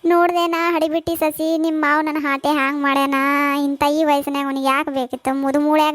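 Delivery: acted tearful lament; crying complaint. Mother-in-law complains to daughter-in-law about husband, tearful. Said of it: "ಯಾಕೆ ಇದು ಅಳ್ಳಗತ್ತಿದಿ?".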